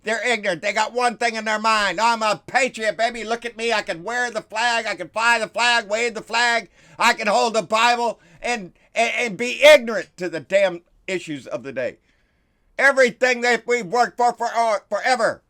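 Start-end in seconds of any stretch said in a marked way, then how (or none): 2.0-12.0 mock patriot. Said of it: "Those kind of people".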